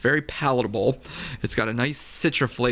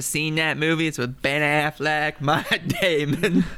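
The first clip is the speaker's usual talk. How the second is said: put-on Boston accent; 2 semitones higher, slower than usual. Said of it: "that was my Boston accent".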